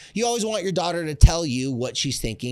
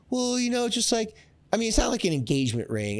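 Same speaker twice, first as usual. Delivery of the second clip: put-on squealing teenage girl voice, much higher; gushing teen daughter; 9 semitones higher, faster than usual. A teenage daughter gushing to her dad, in a squealing high voice. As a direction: gush like a giddy fourteen-year-old. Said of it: "imagine a fourteen-year-old girl".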